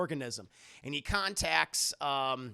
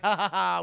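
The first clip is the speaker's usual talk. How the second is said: mock fake laugh; 9 dB louder than usual. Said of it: "And David's like".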